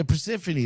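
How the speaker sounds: Persephone repeated as per-SEF-uh-nee; English pronunciation. Shown as a demonstration. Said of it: "That's it".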